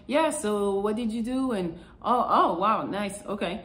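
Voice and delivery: monotone. Retold or imitated.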